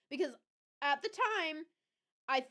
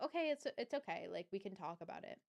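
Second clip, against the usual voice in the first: soft, easygoing reassurance, trailing lower; genuinely okay; 4 semitones lower, 8 dB quieter than usual. Shown as a demonstration. Showing how ex didn't say it, softly reassuring. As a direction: reassure them gently that talking is fine. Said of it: "Not a way where he was like".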